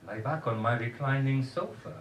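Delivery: lightly voiced Polish dentist; a hint of Polish accent; low Polish voice. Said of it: "she said in her low Polish voice".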